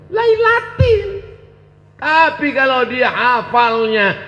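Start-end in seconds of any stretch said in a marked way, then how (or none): 0.1-1.3 "lailatin." high and drawn out with the -in ending; case ending. Shown as a demonstration. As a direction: sing "lailatin" with a bright lifted -tin. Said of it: "setelah fi pasti lay".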